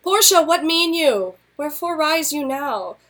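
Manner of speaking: gently chiding his wife; Brutus. Acted. Brutus questioning Portia at dawn, lightly voiced. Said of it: "here's the scene".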